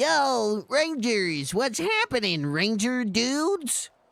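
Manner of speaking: very high, drawn-out, dopey surfer-dude drawl. Imitating a cartoonish robot sidekick greeting the heroes: imitating a dopey surfer-dude voice. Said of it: "he talks like a fucking idiot".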